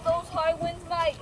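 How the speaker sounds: a kid's mock Australian accent, loud on the big kids; hammed-up Australian accent; put-on Australian accent. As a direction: play a scared Aussie bloke. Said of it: "He has this Australian voice".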